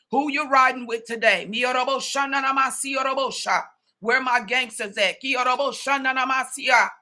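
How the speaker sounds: full-force altar call with tongues; fiery preaching. Real, not acted. Preacher calling the congregation to pick a side, fervent. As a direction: preach hard, calling the riders out.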